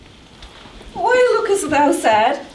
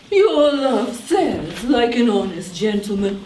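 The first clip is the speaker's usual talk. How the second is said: mocking the nurse; 6 semitones lower than usual. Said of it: "How oddly thou repliest".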